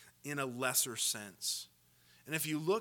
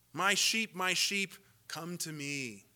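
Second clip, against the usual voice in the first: longing call; 4 semitones higher, 3 dB louder, slower than usual. Pretend. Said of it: "I wish the text said".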